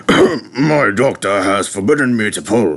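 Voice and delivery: lightly voiced pompous director; fat director excuse. A narrator's reading. Director excusing himself to the crowd, lightly pompous voice. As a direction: make a lofty excuse. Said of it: "he said".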